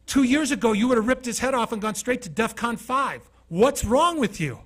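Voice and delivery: high, loud disbelief; astonished friend. Retold or imitated. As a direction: push it like you can't believe it.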